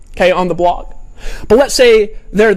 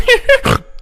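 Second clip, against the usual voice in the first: snorting laugh, pitched way up; Rob Ford snort laugh. Retold or imitated. Mimicking how Rob Ford laughs, high snorting laugh. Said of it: "Rob Ford snorts when he laughs".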